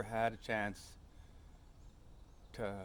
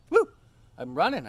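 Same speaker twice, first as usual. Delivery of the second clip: loud whoop while running; re-enacted shout, much louder; yelling; 8 semitones higher, 13 dB louder than usual. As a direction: holler it out to let it go. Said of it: "I start yelling things like".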